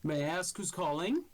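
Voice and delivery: high, loud polite demon voice; polite dark speech. Acted. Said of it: "in dark speak".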